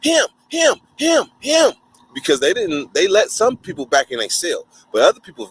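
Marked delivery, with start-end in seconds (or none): 0.0-1.7 jab the words out like pointing cops; officers shouting. Retold or imitated. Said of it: "They start pointing".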